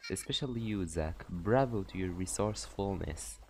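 a hint of a mocking, sly warden; lightly voiced Cathy. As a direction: purr it out like a teasing jailer. Streamer voices Cathy in game.

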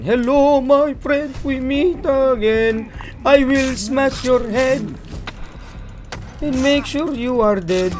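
slow, booming threat from a brute; barbarian. Acted. Repeats greeting as barbarian, threatens.

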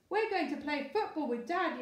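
a mild storybook yell; excited yell. Acted. Boy yelling to his mum about football, a mild yell. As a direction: call it out with eager excitement. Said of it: "yelled Lester".

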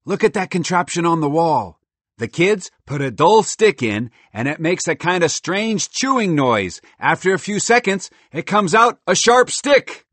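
high, loud, marveling squirrel voice; excitable squirrel, amazed. Acted. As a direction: gush over a wondrous gadget, high and loud.

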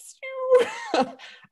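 high little zap of light; imitated piercing whoosh. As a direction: mimic a light beam shooting through. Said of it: "This little, like".

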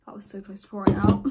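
gasping whisper after a near spill; startled gasp. Real, not acted. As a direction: breathe it out in a startled hush. Soup nearly spills, gasp.

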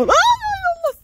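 a sudden high scream of fright; real jump-scare yelp; startled shriek. Real, not acted. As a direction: shriek as something touches you. Startled by the chicken.

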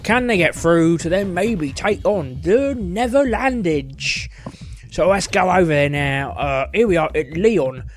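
put-on host the show in a broad Cockney accent; thick Cockney accent. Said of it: "calm down my accent a bit".

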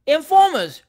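high, loud accusing yell; crowd shout. A narrator's reading. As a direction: jeer it like a mob. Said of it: "shouted the crowd again".

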